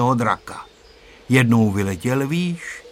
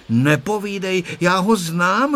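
decisive; 7 semitones higher than usual. A narrator's reading. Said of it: "řekla rozhodným hlasem Tereska".

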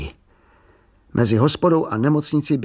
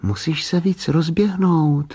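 lightly voiced, a bit higher, slow coaching; girl silently coaching her little brother, higher and slow; a hint of an impatient sister; 6 semitones higher, slower than usual. A narrator's reading. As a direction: urge him on, slightly exasperated.

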